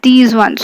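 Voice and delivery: "these" singled out against that; stress on these. Shown as a demonstration. Teacher contrasting with that, stress on these. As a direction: lean on "these" to point it out. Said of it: "if you point out something".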